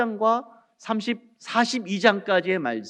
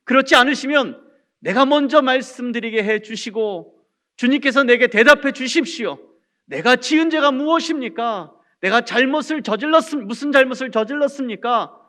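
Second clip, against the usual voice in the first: louder, insistent aggrieved questioning; protesting to God; 3 semitones higher, 4 dB louder than usual. Acted. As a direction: preach Job's complaint with rising force. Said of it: "그러면서 하나님께 이렇게 불평합니다".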